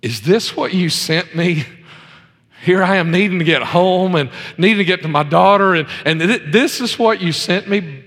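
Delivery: mildly doubtful, halting question to God; imitating incredulous prayer. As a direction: question God in mock disbelief. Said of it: "just kind of thinking".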